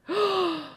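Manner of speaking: a sharp, high theatrical gasp; mock psychic gasp of discovery; psychic's gasp. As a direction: gasp as if sensing a spirit.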